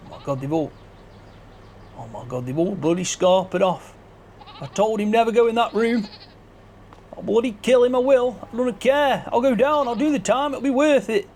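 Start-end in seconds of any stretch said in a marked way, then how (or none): 4.6-6.1 higher angry retort; mock-angry farmer voice; angry character voice. Same line, higher and angrier. 7.1-11.3 hammed-up angry farmer; mock fury. Character raging at culprit.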